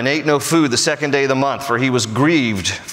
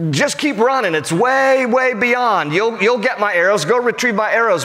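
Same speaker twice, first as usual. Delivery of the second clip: put-on higher, calling out to a boy far off; pitched-up call to the lad downfield; 6 semitones higher than usual. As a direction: shout it after the running lad. Jonathan calls to arrow lad.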